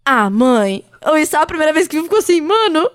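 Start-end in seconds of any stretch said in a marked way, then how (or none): 0.0-0.8 lower, mock grown-up protest; little boy talking like a weary adult; Valentim. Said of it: "quando ele fala assim".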